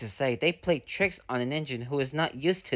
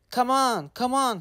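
high, eager little engine voice; puffing engine; 9 semitones higher than usual. Acted. Thomas urging the trucks, puffing high and eager. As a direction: puff it out, urging the trucks along. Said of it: "he puffed".

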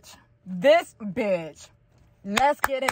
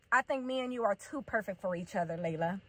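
softly imitating a sincere boyfriend; quiet, earnest declaration, acted out; earnest lover's line; 4 semitones lower, 13 dB quieter than usual. Voices boyfriend's earnest reply.

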